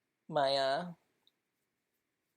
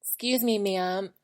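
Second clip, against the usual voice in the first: mock polite; 4 semitones higher, 5 dB louder than usual. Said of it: "I never say that".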